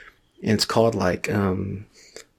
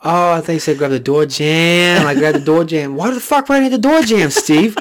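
higher, dopey voice passing the blame; mock dumb cop; 6 semitones higher, 3 dB louder than usual. Cop blaming Steve for the lost door ram, higher and dopey. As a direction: play the clueless cop covering himself.

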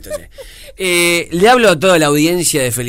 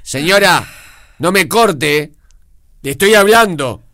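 scolding host; slower than usual. Pretend. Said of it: "El tipo que rezongaba a los oyentes".

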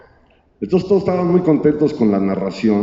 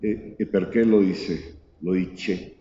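caught-out nervous stammer; 3 semitones lower, 6 dB quieter, slower than usual. Retold or imitated. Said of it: "se queda blanco".

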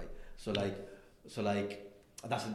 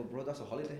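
deadpan callout; 4 semitones higher than usual. Retold or imitated. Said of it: "And I go".

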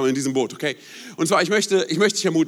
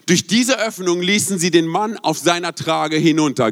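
slow, weighty Bible reading; preacher reading the healing story to his congregation, slow and solemn; scripture reading. Acted. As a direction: read the passage out to the church, slowly. Preacher reads scripture aloud.

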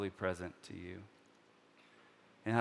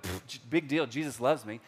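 a bigger, louder scoff than the first; dismissive scoff; 3 semitones higher, 4 dB louder than usual. Retold or imitated. Preacher mocking jaded churchgoers, loud dismissive scoff. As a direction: huff it off like old news.

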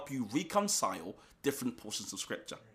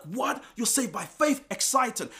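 mock excitement; 7 semitones higher than usual. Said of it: "you're like".

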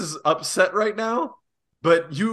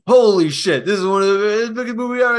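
loud boom and holy shit; mock hype for a blockbuster; hammed-up amazement; excited; 4 semitones higher, 3 dB louder than usual. Hyping the movie release.

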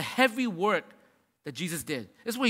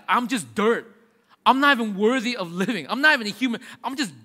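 louder, abject self-abasing cry; mock penitent; 3 semitones higher, 6 dB louder than usual. Pastor voices a repentant sinner in ashes, loud and abject. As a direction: grovel as one unworthy to live.

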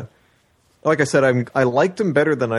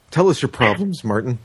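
radio host voice. Pretend. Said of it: "radio talk shows".

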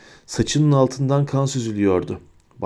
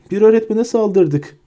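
much higher, louder despairing repeat; rising moan; 9 semitones higher, 4 dB louder than usual. A narrator's reading. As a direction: panic rising on "öğretmene". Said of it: "diye inliyordu".

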